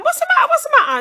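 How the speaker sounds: high, loud alarmed calling out; retold panicked call. Mum hearing daughter scream, panicked high call. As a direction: replay the panic of finding her hurt. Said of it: "So I've gone".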